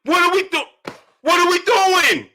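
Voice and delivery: high, slow, outraged cry of disbelief; disbelieving shout. Retold or imitated. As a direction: yell it at the TV like you can't believe it. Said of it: "And I'm like".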